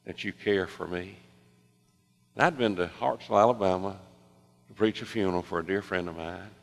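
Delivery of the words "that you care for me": soft, slow plea to God; hushed, unhurried imitation of someone praying; retold quiet prayer. Waitress asking God for a sign, retold quiet prayer.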